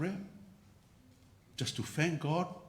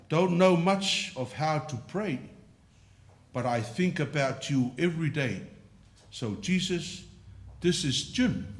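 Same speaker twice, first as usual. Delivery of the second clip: Jim's simple prayer. Retold or imitated. Preacher voicing Jim's daily prayer to Jesus, slow and earnest. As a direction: pray it plainly, like a humble old man checking in. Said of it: "That was his prayer".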